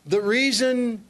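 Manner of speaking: put-on light Indian accent on the quote; slight Indian accent, gently wise. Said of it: "he's speaking with an Indian accent".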